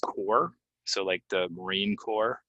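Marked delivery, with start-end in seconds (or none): 0.0-0.5 "core" with no p or s at the end; silent P. Shown as a demonstration. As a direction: say "core" ending on r. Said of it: "this word is pronounced core".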